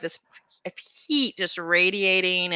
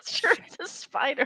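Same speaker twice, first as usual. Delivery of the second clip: sarcastic mimicry; 8 semitones higher, 4 dB quieter than usual. Mocking preachy girl's disbelief.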